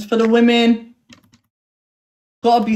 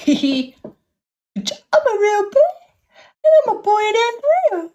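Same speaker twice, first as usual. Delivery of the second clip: mock crying voice; 8 semitones higher than usual. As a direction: pretend to sob it out, hammed up. Mock sobbing about being a boy.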